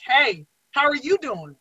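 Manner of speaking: slow, flat brush-off greeting; cold dismissive tone. Retold or imitated. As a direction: greet him so he backs off. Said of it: "like, that tone".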